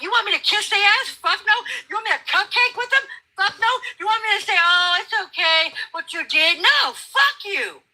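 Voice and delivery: high-pitched indignant outburst; rising angry challenge; furious rant. Real, not acted. Angry rant about politicians.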